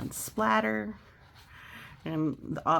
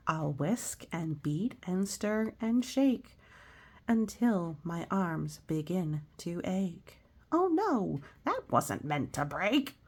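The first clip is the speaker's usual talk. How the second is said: slow, storybook read-aloud; reading to children; slower than usual. Acted. Teacher reading a picture book to children, slow and gentle. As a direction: read the rhymes gently to kids.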